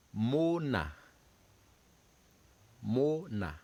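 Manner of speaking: "Mona" said moh-nah; French word drill. Shown as a demonstration. Teacher models the French word for students. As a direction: model "Mona" clearly for the class.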